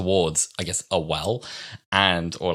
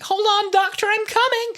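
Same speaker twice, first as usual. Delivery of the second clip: high, urgent companion voice; mock calling out; 4 dB louder than usual. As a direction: call after a runaway friend. Acting companion calling after Doctor.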